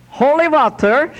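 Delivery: put-on high old Irish lady's voice, brogue thick. Old lady answering the customs inspector in Irish brogue. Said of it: "she replied in a thick Irish brogue".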